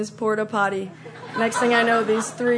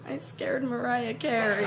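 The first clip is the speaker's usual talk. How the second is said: mock-tearful confession; 2 semitones higher, 7 dB quieter than usual. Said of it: "And I was just like".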